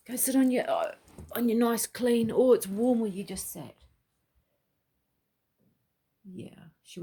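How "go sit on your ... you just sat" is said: talking to the dog. Real, not acted. Coaxing the dog.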